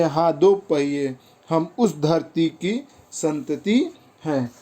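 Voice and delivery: slow, measured verse reading; poem recitation. Acted. Teacher repeating the closing verse to pupils, poem recitation. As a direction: recite the closing lines in drawn-out phrases.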